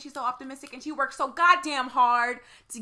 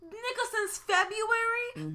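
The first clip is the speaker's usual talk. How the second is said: stunned disbelief; 10 semitones higher, 4 dB quieter, slower than usual. Real, not acted. Reacting to February news.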